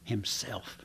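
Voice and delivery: Himself dropped soft and inward; quiet himself. Shown as a demonstration. Preacher to congregation, a soft reflective Himself. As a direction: say Himself softly to yourself.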